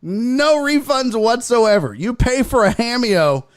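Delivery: high-pitched, insistent proclamation; emphatic declaration. Pretend. Streamer warning paying viewers about refunds, emphatic and high. Announcing a no-refund rule to chat.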